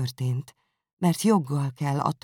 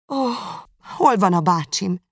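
anguished cry; 6 semitones higher, 5 dB louder than usual. Acted. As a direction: cry out for her uncle in a panic. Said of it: "kiáltotta Elizabeth". (riadt, hangos, magas kiáltás)

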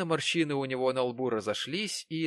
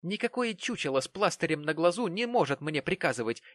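higher, scornful; defiant Mary; 7 semitones higher than usual. A narrator's reading. Mary scornfully rejects Jonas's commands. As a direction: dismiss him haughtily.

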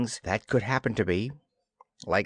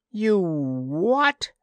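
sharp, higher, louder disbelief; startled outburst; 7 semitones higher, 4 dB louder than usual. A narrator's reading. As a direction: snap it back in disbelief.

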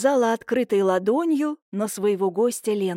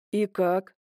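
small pleading question; almost begging for reassurance; mildly plaintive; 2 semitones lower than usual. A narrator's reading. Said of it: "Почти жалобно посмотрел он".

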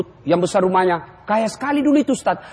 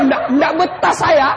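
panicked jinn; 8 semitones higher, 3 dB louder than usual. Retold or imitated. Jinn fleeing the nagging wife.

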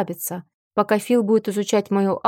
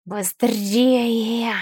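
growling orc. Acted. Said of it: "рычал орк".

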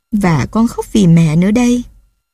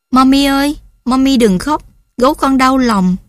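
put-on small boy's voice, much higher, begging; pleading child; 6 semitones higher than usual. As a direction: toddler begging mum to stop crying. Child comforts crying mother. (giọng bé con cao hẳn, năn nỉ)

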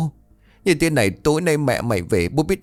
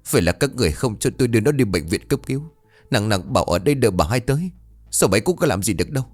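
mild anguished outburst; 3 semitones higher, faster than usual. Acted. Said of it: "Vũ một lần nữa gào lên".

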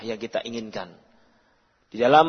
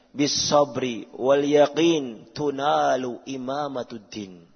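recited Arabic quote; slower than usual. Acted. Scholar's Arabic saying quoted.

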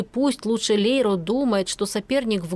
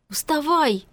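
barked order, higher pitched; 5 semitones higher than usual. Acted. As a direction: bark the command. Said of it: "рявкнула Киара".

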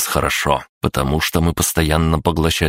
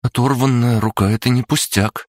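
disapproving; 8 semitones higher than usual. A narrator's reading. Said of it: "неодобрительно покачала головой Маша".

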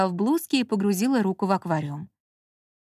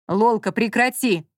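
slow, firm raised rebuke; slightly louder stern rebuke; snapping at her; 4 dB louder than usual. A narrator's reading. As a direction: shout her down. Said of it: "прикрикнул на неё Маркиз".

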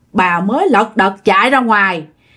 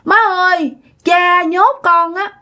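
high, tearful begging; crying plea; 9 semitones higher than usual. A narrator's reading. Trapped daughter cries to mother for rescue, tearful. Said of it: "vừa kêu mà vừa khóc".

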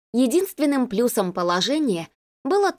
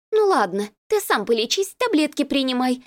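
placated woman; 5 semitones higher than usual. Acted. Girlfriend backing off.

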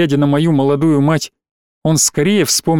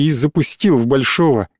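plain reading voice

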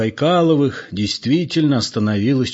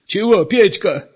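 put-on higher-pitched, winded old man's question; out of breath; 9 semitones higher, 4 dB louder than usual. A narrator's reading. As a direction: ask it while catching your breath. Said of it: "спросил запыхавшийся старик".

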